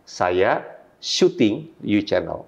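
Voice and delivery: "syuting" isolated by pauses, very slow sentence; pause, then land on "syuting"; stress on SYUTING. Shown as a demonstration. Trainer demonstrating cherry picking, stress on "syuting". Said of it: "kita tekankan dengan namanya cherry picking".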